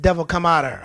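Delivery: forceful shout at the devil; shouted command. Retold or imitated. Pastor shouts at demon to leave. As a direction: order it out.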